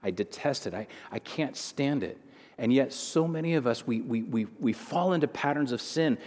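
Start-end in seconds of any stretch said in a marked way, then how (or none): 0.0-2.2 whispered, hushed revulsion; God's hushed disgust. Retold or imitated. Preacher voicing God rejecting sin, hushed whisper. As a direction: breathe it out like a secret horror. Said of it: "God looks at sin and he goes".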